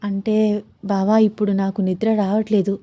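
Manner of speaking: shyly confess, eyes down; coy, hushed reply to her husband. Acted. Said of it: "సిగ్గుపడుతూ".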